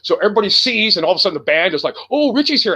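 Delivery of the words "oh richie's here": high, mock-excited murmur of recognition; star-struck bandmates. Imitating the band as Richie walks in, high mock excitement. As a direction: imitate a band spotting someone famous.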